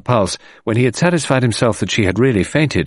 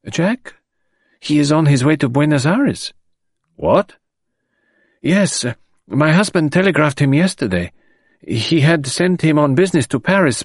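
a lightly higher, anxious widow's voice; lightly voiced grieving wife, higher; anxious mother; 7 semitones higher than usual. A narrator's reading. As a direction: voice her as a worried mother, a touch higher. Madame Renault voiced in reading.

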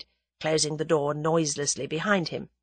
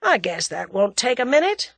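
American drawl, pitched up; lightly drawled American reply; 7 semitones higher, 5 dB louder than usual. A narrator's reading. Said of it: "drawled Julius".

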